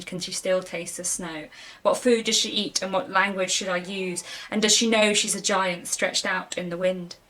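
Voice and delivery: measured, understated poetry reading; poem reading. Acted. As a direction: read the poem aloud, softening at line ends. Reads a poem aloud.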